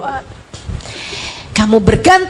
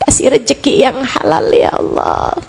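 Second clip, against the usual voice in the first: understated acted pleading prayer; tearful supplication. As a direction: implore God as if holding back tears. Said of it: "dengan linangan air mata kamu bilang".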